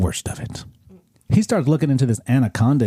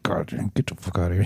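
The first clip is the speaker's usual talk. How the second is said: retold angry snap; 4 semitones lower, 6 dB quieter, faster than usual. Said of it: "I was like".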